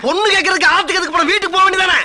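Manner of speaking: high-pitched exasperated rebuke; exasperated scolding. Acted. Elder scolding the timid lover, exasperated. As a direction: scold him, voice climbing high. Scolding the priest who loved bride.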